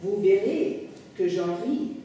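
measured French memoir narration, phrase by phrase; literary reading aloud. Acted. Memoirist addressing his dear reader, measured literary reading. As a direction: read it as a confession addressed to the reader.

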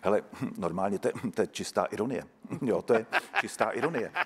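understated, halting expert verdict; dramaturge. Retold or imitated. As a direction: imitate a pensive dramaturge, hm-ing before each thought. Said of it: "náš dramaturg a říkal".

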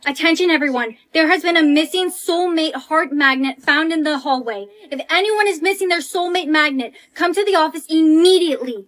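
public announcement. Acted. Making a school-wide announcement.

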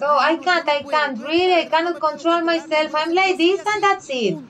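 high, petulant whining; mock believer excusing himself, petulant whine; whiny excuse. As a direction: play someone making excuses for their temper. Quoting believer refusing self-control.

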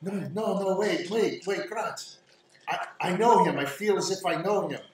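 high, softened plea; pleading young woman. Acted. Game master voices Irina resisting.

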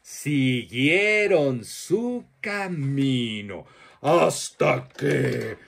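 put-on lively storyteller voice for children, with playful questions; reading to children. Storyteller telling children a monster tale, lively and playful. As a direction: tell it like a children's storyteller, drawing kids in.

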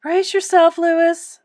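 high, loud warning; urgent call. A narrator's reading. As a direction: call out to prepare him. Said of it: "Miss Severs called".

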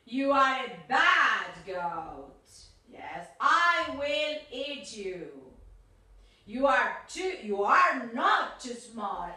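a hint of a threatening troll; menacing monster. Monster answers the goat.

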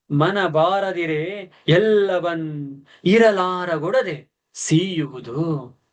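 drawn-out, slow verse reading; slow poem recitation. Acted. Teacher slowly reciting the father's farewell verse. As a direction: stretch every word of the verse slowly.

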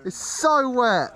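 slow and high, in disbelief; stunned. Real, not acted. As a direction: drag out the so, amazed. Reacting to the wet course.

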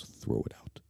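breathy unvoiced whisper. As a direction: hiss it right into his ear. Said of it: "Just whispers in my ear like that".

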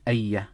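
أي ending in a short "a", "ayya"; fatha ending. Shown as a demonstration. Teacher explains the object's case, fatha ending. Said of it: "we read it with a fatha".

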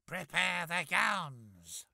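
loud commanding stepmother; hollered order. Acted. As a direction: holler the order across the room. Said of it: "she hollered".

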